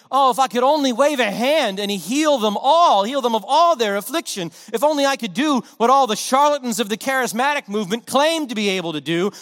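impassioned wish building to a cry; yearning outburst. Retold or imitated. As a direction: pour out a helpless longing to heal. Imagined longing to heal loved ones.

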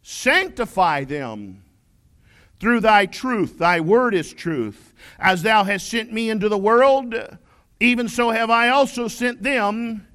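solemn Bible reading from the pulpit; scripture reading. Acted. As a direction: read it with reverent weight, phrase by phrase. Reads scripture in KJV cadence.

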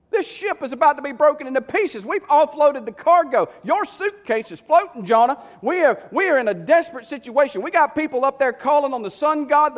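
high-pitched, agitated tirade; urgent scolding. Acted. Captain berating Jonah in a sinking ship, urgent and exasperated. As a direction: pile up the dangers in exasperation.

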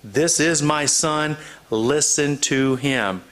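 slow, measured voice of God, lightly voiced; announcing. God to the three disciples, slow understated announcement. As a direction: announce it slowly, each word given room. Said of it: "the voice from God announcing".

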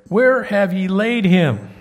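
slow, loud, solemn question; Jesus asking. Acted. Jesus asks the mourners where Lazarus lies, slow and solemn. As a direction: ask it with weighty slowness.

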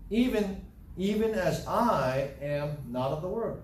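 slow, with "I" drawn out and stressed; emphatic scripture reading. Shown as a demonstration. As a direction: lean hard on "I", measured reading. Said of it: "I'll emphasize certain words here".

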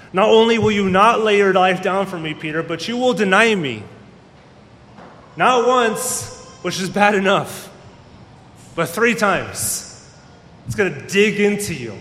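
Jesus rebuking Peter, loud and stern; stern rebuke. Acted. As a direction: lay it on him hard, raising your voice.

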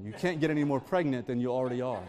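quick, laughing retelling of the line; fast and laughing, caught by his own words; laughing through it. Real, not acted. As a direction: say it while laughing at yourself. Quote recalled amid laughter.

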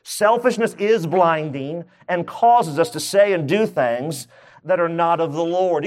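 slow dictation. Shown as a demonstration. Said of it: "Write this down".

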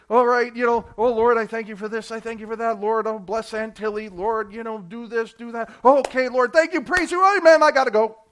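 rattled-off, careless prayer parody; mock hurried prayer. Mocking a rushed prayer meeting.

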